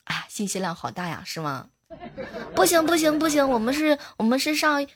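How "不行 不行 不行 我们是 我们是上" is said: laughing while protesting. Real, not acted. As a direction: giggle through the words. Laughing at own risqué joke.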